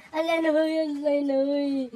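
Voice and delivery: high, loud call across the room. Acted. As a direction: call his name from far off. Calling to sick brother.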